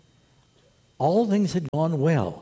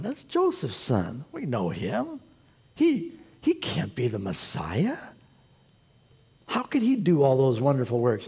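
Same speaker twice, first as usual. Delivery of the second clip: scoffing doubter. Retold or imitated. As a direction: sneer it like a doubter in the crowd. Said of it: "And they go".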